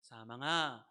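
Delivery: put-on 사망아 said low, old-man style; like a grandfather. Shown as a demonstration. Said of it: "할아버지처럼 읽으시면 안 돼요". (할아버지처럼 낮게 읽기)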